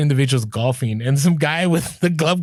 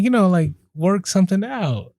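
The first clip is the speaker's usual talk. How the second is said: hammed-up sly, knowing hint, higher; suggestive; 5 semitones higher than usual. Shown as a demonstration. Asking the thrift store clerk for a deal, exaggerated sly hint. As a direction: wink it like a shady backroom deal. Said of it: "I didn't say it like this".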